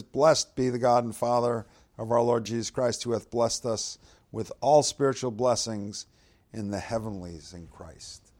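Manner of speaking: solemn, measured Bible reading; preacher reading the verse to the congregation, solemn; scripture reading. Acted. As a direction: read it out like scripture from the pulpit. Reads Ephesians aloud.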